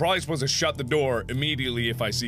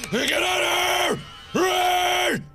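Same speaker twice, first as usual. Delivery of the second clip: shouting; 6 semitones higher, much slower than usual. Real, not acted. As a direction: yell at them to flee. Shouting at the kids.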